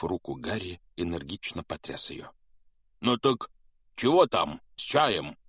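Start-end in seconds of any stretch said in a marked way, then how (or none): 3.0-5.4 eager giant. A narrator's reading. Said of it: "потирая руки".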